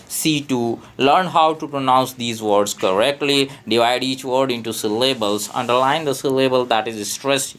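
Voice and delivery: slow, deliberate reading of exercise instructions; slow textbook reading. Acted. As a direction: read each question out slowly, word by word, like dictation for a class. Reads textbook questions aloud.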